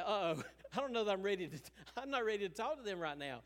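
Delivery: fast, giggling avoidance; dodging someone at the end of the grocery aisle, laughing and fast; laughing nervous aside. Retold or imitated. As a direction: rush it out through laughter. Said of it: "You're like".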